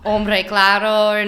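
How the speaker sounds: drawn-out mock Spanish accent; slow it down, exaggerating like a Spaniard; exaggerated Spain accent. Shown as a demonstration. Learner demonstrating her Spanish personality, exaggerated Spain accent. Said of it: "exagerado un poquito, como".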